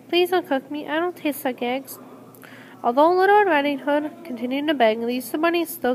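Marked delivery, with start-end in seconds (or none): 0.1-2.0 begging. Acted. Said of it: "then begged".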